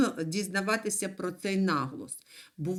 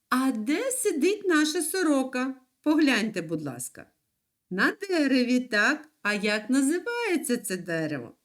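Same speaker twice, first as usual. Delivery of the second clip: ordinary talk, nothing marked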